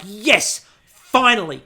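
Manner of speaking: loud, triumphant relief; excited. Retold or imitated. Podcaster recalls her joy at the bake's name, excited. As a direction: celebrate a long-awaited moment, loudly.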